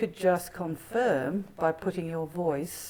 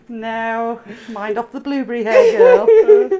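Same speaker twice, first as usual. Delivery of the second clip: words squeezed through a loud laugh; laughing loudly; 5 semitones higher, 15 dB louder, slower than usual. Real, not acted. Laughing at the recording.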